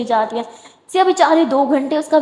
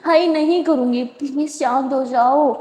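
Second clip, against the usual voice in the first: soothing apology. Acted. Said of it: "بیٹھ کے کس کر کے بولتی ہے".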